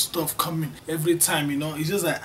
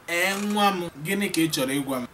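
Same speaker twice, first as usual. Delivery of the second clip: mother's reply; 2 semitones higher, faster than usual. Acted. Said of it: "Your mother will respond".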